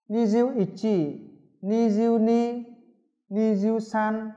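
teacher modelling numbers slowly; slow drill. Shown as a demonstration. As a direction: drag each number out for students to copy. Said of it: "các bạn sẽ đọc theo".

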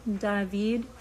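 David as Dah-veed, stress on the end; Russian pronunciation. Shown as a demonstration. Telling viewers how her son's name sounds in Russian. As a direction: say David the Russian way, ah then long ee. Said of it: "D A H V E E D in Russian".

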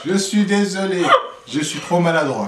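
loud, high, laughing through words; laughing apology. Real, not acted. Spills nuts, apologizes laughing.

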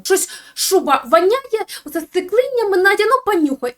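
hammed-up fussing about a smelly coat; mock disgusted whine. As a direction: drag out a grossed-out grumble. Son complaining about the fur coat.

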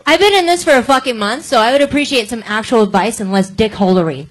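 loud, heated pushback; angry. Real, not acted. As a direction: push back hard, fed up and loud. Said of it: "you seem furiously angry".

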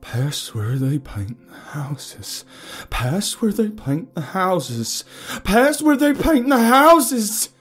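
slow chant building from strained to screaming. A narrator's reading. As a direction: repeat it, climbing in pitch and volume. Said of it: "repeating himself louder and louder".

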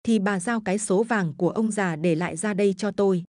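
a lightly voiced bullying son, wheedling; demanding drunk son. Drunken son pressing his mother for gold, wheedling. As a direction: coax and threaten the old mother for her gold.

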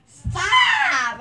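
high squeal with a laugh; laughing protest. Real, not acted. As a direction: squeal stop while giggling.

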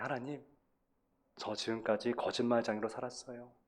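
soft, halting acted confession fading to a whisper; imagined tearful confession. Jacob confessing his past to God, hushed acted sorrow fading away. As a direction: plead quietly with God, as if near tears. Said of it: "울면서 얘기했을 거예요".

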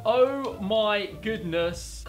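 ordinary talk

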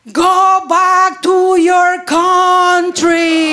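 slow, drawn-out hostile yell; mock yell. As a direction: bark it like an angry heckler. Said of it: "the guy yells at me".

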